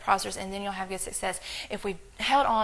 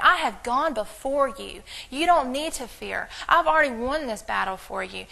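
a hint of God gently scolding; God's voice. Preacher voicing God reassuring a worried believer, mildly raised.

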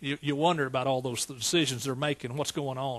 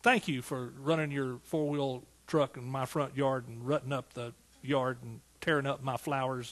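mock thank you; 3 semitones lower, 4 dB quieter than usual. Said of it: "You know".

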